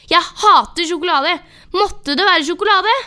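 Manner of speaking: høyere, lysere, sint utbrudd. Acted. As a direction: spytt ut hatet mot sjokolade. Sint utbrudd over sjokoladen. (sint og høy)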